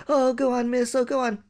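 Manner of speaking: high pleading whine; whiny begging. Retold or imitated. Pupil pleads with strict teacher, high whine. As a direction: beg the teacher like a child.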